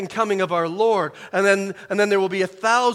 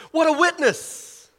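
much higher, slow marvel; awed exclamation; 10 semitones higher, 3 dB louder, slower than usual. Real, not acted. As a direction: marvel at it out loud. Exclamation of awe.

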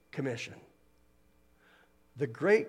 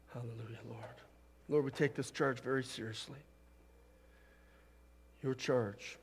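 prayer; 2 semitones lower, 4 dB quieter than usual. Real, not acted. Preacher leading the church in prayer, hushed and reverent. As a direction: speak softly and reverently to God.

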